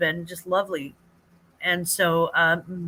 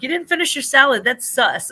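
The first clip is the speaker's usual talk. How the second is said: put-on child voice; 5 semitones higher, 6 dB louder than usual. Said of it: "he's like".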